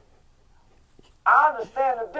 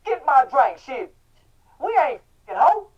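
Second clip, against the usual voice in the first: mock ignorant man. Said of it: "let me bring some of this ignorant nigga say".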